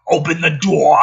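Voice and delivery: a lightly voiced yell; mild mock yell. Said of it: "McKenna yells".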